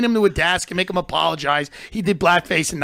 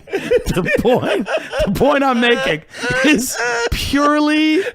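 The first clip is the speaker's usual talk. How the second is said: heated raised voice; 8 semitones higher, 6 dB louder than usual. Real, not acted. Heated point.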